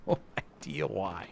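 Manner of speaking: slow, quiet words dissolving into laughter; helpless laughing. Real, not acted. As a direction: laugh helplessly at your own confusion. Laughs at own repeated mistake.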